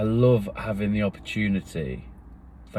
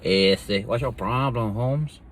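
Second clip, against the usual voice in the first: mock cholo tough guy; slower than usual. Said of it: "I do the accents".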